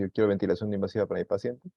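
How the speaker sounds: brisk, lightly voiced caregiver asking the doctor; quick mock request. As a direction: rattle off "Yo quiero ventilación no invasiva" as the caregiver would. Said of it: "cuando usted le dice".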